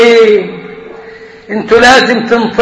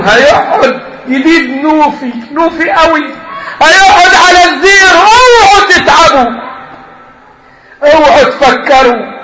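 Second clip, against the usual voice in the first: laughing mockery; 4 semitones higher than usual. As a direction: cackle as you oversell it. Mocking sales pitch, laughing.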